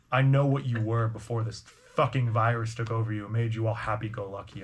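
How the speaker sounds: low, menacing threat; raspy minotaur thug. Acted. Seedy minotaur threatens a farmer from his past, raspy. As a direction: lean on him in a low, rough voice. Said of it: "kinda like a raspy voice".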